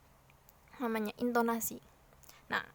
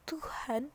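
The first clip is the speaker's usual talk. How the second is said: "Tuhan" set apart, hushed and weighty; stress on TUHAN; 3 semitones higher, 7 dB quieter than usual. Shown as a demonstration. Teacher singling out the key word, stress on hushed "Tuhan". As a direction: give "Tuhan" its own breathy weight. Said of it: "kata Tuhannya itu din".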